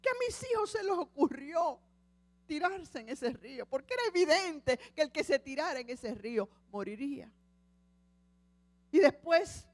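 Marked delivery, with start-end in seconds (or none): 0.0-7.3 weeping. Acted. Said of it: "llorando decía".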